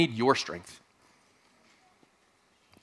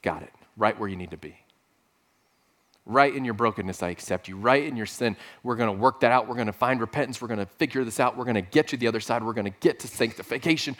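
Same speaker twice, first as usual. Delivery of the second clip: tender voice of God; 3 semitones lower than usual. Pretend. God answering the humble cry, low and tender. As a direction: speak as a gentle God accepting a broken person. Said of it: "God goes".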